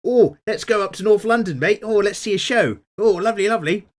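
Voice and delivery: high, loud exaggerated British Asian accent. Host imitating a TV show guy, British Asian accent. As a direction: play a chirpy lad in a British Asian accent. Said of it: "British Asian, like ... guy with the really".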